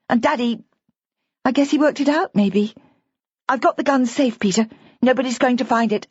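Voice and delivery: put-on a young wife trying to reassure him; young woman Bridget. A narrator's reading. Bridget voiced by narrator.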